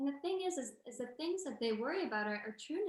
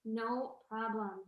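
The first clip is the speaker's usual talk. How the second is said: slow, relaxed "No problem"; much slower than usual. Shown as a demonstration.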